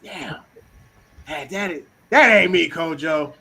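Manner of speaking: mask the jab as a loud joke; playful sarcasm. Acted. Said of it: "hear me doing a little bit of sarcasm".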